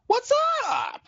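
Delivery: very high, drawn-out shout; shouted greeting. Real, not acted. Co-host answers his introduction on the show, high excited shout. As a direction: holler a big hype greeting.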